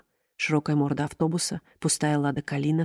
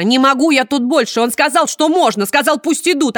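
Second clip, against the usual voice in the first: высоко и громко, на грани срыва; кричать, не владея собой; истеричный крик; 9 semitones higher, 9 dB louder than usual. Acted. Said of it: "закричала худенькая хозяйка Сеттера". (хозяйка Сеттера в истерике кричит)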